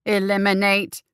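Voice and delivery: grate it out like a war machine; grating machine voice. Acted. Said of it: "it grated".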